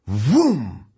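drawn-out "whoom" sound effect; booming lid crash. A narrator's reading. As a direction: voice the heavy boom of a lid hitting the floor. Imitates lid hitting the floor.

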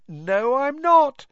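high, rising, loud and delighted; proud insistence with a big smile; beaming. A narrator's reading. Hermione contradicting Ron's disbelief, beaming.

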